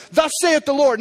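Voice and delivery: lightly voiced prophet; prophetic declaration. Shown as a demonstration. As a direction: declare it with authority. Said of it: "that's the Old Testament prophetic".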